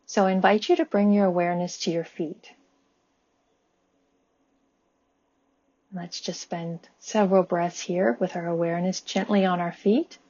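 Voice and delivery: calm body-scan guidance, long pauses between phrases; guided meditation. Acted. Guiding listeners' attention up the body with gratitude, calm meditation voice. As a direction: lead them gently and evenly, leaving room to breathe.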